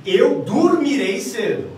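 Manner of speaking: slow, high and loud, fully certain; inverted intonation, assertive. Shown as a demonstration. Teacher inverts the intonation for students, loud and certain. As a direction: declare it firmly, stretching each word. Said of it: "eu posso inverter a minha intenção, minha entonação".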